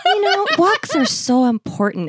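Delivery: high-pitched, sugary mock-mom hint; passive-aggressive mom. Mom pushing walks on her daughter, passive-aggressive. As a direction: imitate a mother being pointedly positive. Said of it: "She's the passive aggressive kind of brutal".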